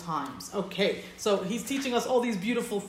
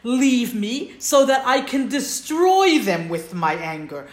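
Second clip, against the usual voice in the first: much higher and louder, slow and stretched; booming divine voice; 4 semitones higher, 7 dB louder, slower than usual. Acted. Teacher plays God telling Moshe to leave, slow and loud. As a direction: proclaim it slowly like God speaking from on high. Teacher voicing God's anger.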